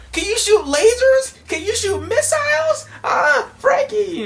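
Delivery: squeaky, loud cartoon falsetto; excited Chopper squeal. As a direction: pepper him with questions in a high, thrilled squeal. Acts out excited Chopper questioning Frankie.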